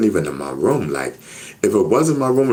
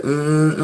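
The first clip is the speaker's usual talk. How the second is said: imitated buzz; 8 semitones higher than usual. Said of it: "and I hear".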